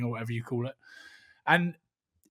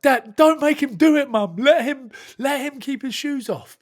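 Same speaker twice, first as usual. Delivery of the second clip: imitating his son, higher; 10 semitones higher, 7 dB louder than usual. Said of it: "was like".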